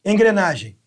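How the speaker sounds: normal talking voice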